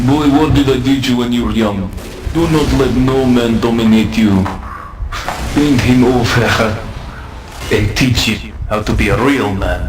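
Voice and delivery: a hint of a stern old uncle; lightly voiced lecturing elder; Uncle Boris. Uncle's voice from the heavens scolding the boy, mild. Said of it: "It is Uncle Boris, and he says".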